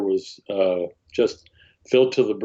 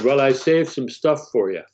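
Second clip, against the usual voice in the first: put-on light Pennsylvania Dutch accent, pitched higher; 4 semitones higher than usual. Foreman to the young scavenger at the dumpster, lightly accented Pennsylvania Dutch. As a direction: imitate the foreman's mild Pennsylvania Dutch lilt. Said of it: "in his accent, he said".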